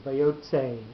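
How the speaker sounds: "vayotze" with the tse held longer and accented; lengthened tse. Shown as a demonstration. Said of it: "giving the tse a little more".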